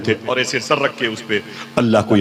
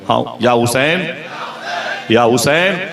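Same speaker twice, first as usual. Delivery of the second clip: louder call; 2 semitones higher than usual. Shown as a demonstration. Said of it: "ऊंची आवाज से बोलिएगा".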